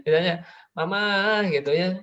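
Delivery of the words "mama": put-on high, louder child's call; child calling Mama. Child to mother, high mock pleading. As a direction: imitate a child calling for help.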